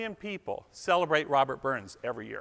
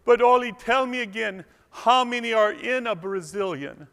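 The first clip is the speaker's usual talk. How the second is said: higher-pitched, puzzled wife voice; a light Lena voice, a bit higher; naive Lena; 5 semitones higher than usual. Acted. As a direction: play her innocently confused. Lena asks naive question.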